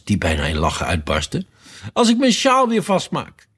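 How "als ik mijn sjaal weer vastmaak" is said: high-pitched anguished wail; groaned out. A narrator's reading. The poor queen answers Alice, groaning it out. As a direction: moan it out in high distress. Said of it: "kreunde de arme koningin het uit".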